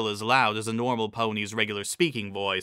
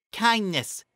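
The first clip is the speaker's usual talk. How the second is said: Trixie's voice; 10 semitones higher than usual. A narrator's reading.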